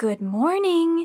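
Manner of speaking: lilting singsong tone. Reading a story aloud, a nurse greeting a waking patient: sing-song voice. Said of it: "Cassie said in a sing-song voice".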